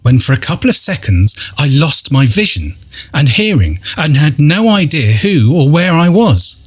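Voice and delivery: measured, dramatic first-person storytelling; ghost story narration. A narrator's reading. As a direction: read an eerie account with deliberate pauses. Reads out a ghost-hunt account.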